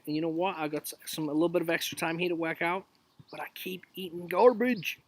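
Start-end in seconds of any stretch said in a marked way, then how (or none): 3.3-5.0 whispered confession; sneaky whispered admission; confessional whisper. Real, not acted. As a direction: whisper it like admitting a guilty habit. Confessing about eating garbage.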